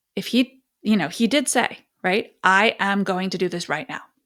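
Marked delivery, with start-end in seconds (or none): 2.5-4.0 mock demanding, authoritative, commanding tone. Talking about correcting children, speaker quotes the child's demanding, authoritative declaration. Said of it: "in a very demanding, in a very authoritative tone".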